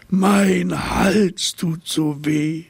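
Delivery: high, slow, drawn-out whimper of a sore giraffe; whiny giraffe. A narrator's reading. Giraffe complaining to herself about her sore neck, whining. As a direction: moan it like a self-pitying giraffe. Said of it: "jammerte die Giraffe".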